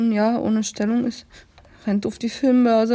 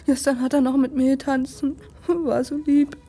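tearful; 4 semitones higher than usual. Acted. Weeping over the dead baron.

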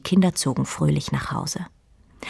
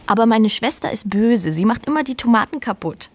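higher, teasing with a touch of giggle; boy jokes about his sister, lightly giggling; 6 semitones higher than usual. A narrator's reading. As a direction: tease his sister playfully. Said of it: "sagte der Junge mit einem Kichern".

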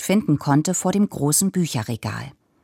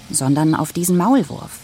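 ordinary delivery, nothing marked

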